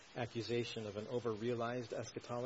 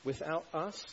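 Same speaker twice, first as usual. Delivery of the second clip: a touch of mock wonder, raised pitch; sarcastic; 5 semitones higher, 4 dB louder than usual. Preacher voicing Paul to the Corinthians, sarcastic. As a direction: pointedly feign being left out. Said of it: "Paul's sarcasm is to try to".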